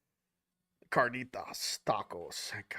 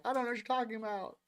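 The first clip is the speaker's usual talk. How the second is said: innocent; 5 semitones higher, 6 dB quieter, faster than usual. Retold or imitated. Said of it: "I'm like".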